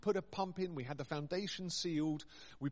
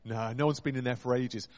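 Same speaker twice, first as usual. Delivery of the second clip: lower, louder blokey British workman voice; lower, louder mock British workman warning off the vicar; 6 semitones lower, 6 dB louder than usual. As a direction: drop low and boom like a reluctant builder. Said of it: "it's sort of British workman".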